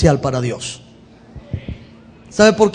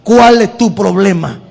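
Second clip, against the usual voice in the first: fed up. Pretend. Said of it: "se pone ya hasta aquí y le dice".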